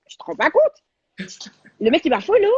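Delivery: can't believe your luck, gush it; ecstatic disbelief. Real, not acted. Telling her host the star followed her, squealing excitedly.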